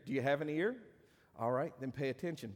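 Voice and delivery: dry mock question to the congregation; sarcastic. Shown as a demonstration. Preacher teasing his church with sarcasm. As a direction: tease them, deadpan, as if they might lack ears. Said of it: "that's sarcasm".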